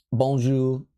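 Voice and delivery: bonjour in shaky learner's French with Spanish mixed in; fake French accent. Shown as a demonstration. Streamer recalls learning French, fake French accent. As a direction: attempt French, badly, on bonjour. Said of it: "that sounds like fake French".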